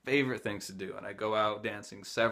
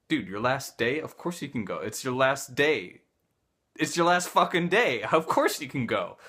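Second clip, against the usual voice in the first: louder and louder insistence; insistent; 2 semitones higher, 6 dB louder than usual. Retold or imitated. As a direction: build to a loud "last fucking day". Hippie insisting, building up.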